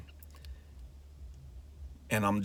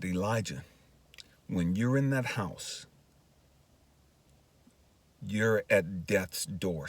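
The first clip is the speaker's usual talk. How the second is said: voice of God; 2 semitones lower, slower than usual. Retold or imitated. Voices God answering him slowly, gravely.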